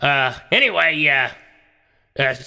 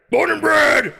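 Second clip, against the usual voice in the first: Texan whoop; 11 semitones higher, 3 dB louder, much slower than usual. Acted. Texan yell.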